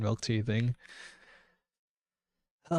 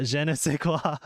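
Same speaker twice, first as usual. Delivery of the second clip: bad French accent; 3 semitones higher than usual. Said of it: "best French impression".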